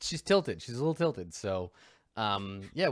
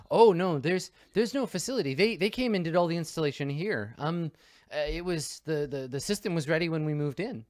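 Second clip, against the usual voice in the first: a lightly higher, eager suburban mom; 4 semitones higher, 3 dB louder than usual. Acted. GM voicing the mom answering the investigator, lightly higher and eager. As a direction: play her as a nervous, chatty housewife.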